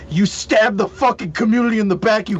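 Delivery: imitating an angry incel; hammed-up betrayed outrage; mock angry incel. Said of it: "but they're like".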